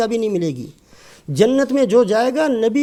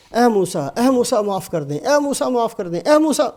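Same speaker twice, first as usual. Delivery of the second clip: retold desperate cries. Qarun begs Musa as he sinks, in mildly acted cries. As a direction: call out for mercy, rising with each repeat. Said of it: "چیخنا، چلانا، شور مچانا شروع کیا".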